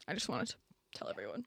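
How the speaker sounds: hushed, voiceless aside; small, breathy-quiet confession; near whisper. Real, not acted. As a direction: let it drop away to a whisper. Aside about costume, trailing to whisper.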